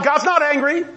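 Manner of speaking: lightly mock the upbeat reassurance; Joel Osteen imitation. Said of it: "I was trying to do a Joel Osteen imitation".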